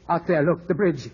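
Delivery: rising panic; sudden dread at what he sees; alarmed. Acted. Philip at the window sees Rachel near the bridge, alarmed.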